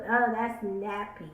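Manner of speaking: slow, dismissive sneer at the word; sneering attitude. Retold or imitated. Vlogger imitating people who sneer at nappy hair, mild mock disdain. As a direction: say it like something beneath you, mildly mocking. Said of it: "it's always this attitude of".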